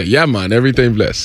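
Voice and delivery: laid-back Jamaican patois demo; Caribbean patois. Shown as a demonstration. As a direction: model the island phrase in Caribbean patois. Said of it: "the way you're saying it".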